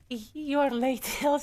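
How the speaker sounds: Scottish-style ogre impression; joking brogue with a laugh; Shrek. Streamer mocks own dwarf line as an ogre's, in joking impression. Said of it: "said Shrek".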